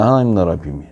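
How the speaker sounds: ordinary talk, nothing marked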